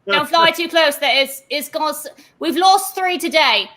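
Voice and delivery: a flustered constable waving adventurers off the hole; a hint of a fussy dwarf guard calling out; Barnabas, warning. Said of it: "Barnabas, looks around and goes".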